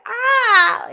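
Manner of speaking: high, loud short shriek; sudden high fright cry; startled scream. Retold or imitated. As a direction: yelp like something scared you. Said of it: "I probably would have screamed".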